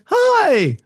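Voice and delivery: high, bright cartoon machine greeting; computer saying hello. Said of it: "And now the computer goes".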